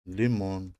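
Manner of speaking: لیمون as a careful teacher's model; Russian word. Shown as a demonstration. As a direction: model لیمون for the learner, stressed on the last syllable. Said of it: "مثل لیمون".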